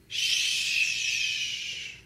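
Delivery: soft unvoiced shush. Shown as a demonstration. Preacher telling wives to stay quiet, soft shush. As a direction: hush them gently.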